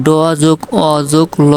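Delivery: "ড যোগ অ যোগ ল" broken into its separate sounds; sounded out. Shown as a demonstration. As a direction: sound out ড, অ and ল one by one, joined by যোগ. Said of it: "ডল উচ্চারণ করতে গেলে".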